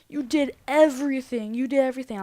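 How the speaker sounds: mildly hammed-up accusation; retold freak-out. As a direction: throw blame like an upset girl. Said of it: "She's, like, freaking out".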